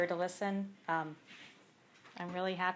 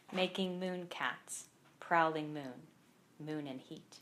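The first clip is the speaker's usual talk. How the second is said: measured poem recital with pauses between lines; poem read aloud at a live reading; poetry reading; slower than usual. Acted. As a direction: read each line deliberately, letting it land. Reads poem from the book.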